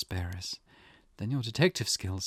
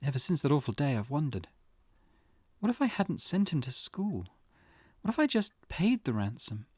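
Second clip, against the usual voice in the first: softened, anguished wondering; mother tormented by what-ifs; grieving self-blame; 3 dB quieter than usual. Acted. Mother wonders if she could have saved Shuichi, grieving.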